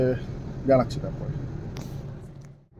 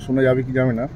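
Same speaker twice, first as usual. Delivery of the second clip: hushed and low so the police won't hear; quiet, hidden commentary; speaking softly; 5 semitones lower, 10 dB quieter than usual. Real, not acted. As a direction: keep it low, almost under your breath. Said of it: "আস্তে আস্তে বলছি".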